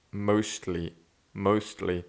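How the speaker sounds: "mostly" said softly with little air leaking; little air leakage. Shown as a demonstration. Testing the word "mostly" for air leakage, careful and controlled. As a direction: say "mostly" carefully, holding back the breath. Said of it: "it exposes if you have leakage".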